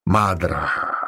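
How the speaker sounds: understated motherly address; mateřsky. A narrator's reading. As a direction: soothe her like an older friend. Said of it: "chovala se k ní mateřsky". (mírně mateřský tón)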